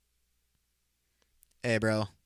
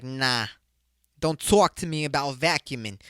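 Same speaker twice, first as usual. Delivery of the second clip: put-on a light New Jersey accent, dismissive movie line; lightly done New Jersey brush-off; 4 dB louder than usual. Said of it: "my fucking New Jersey accent would have been that good".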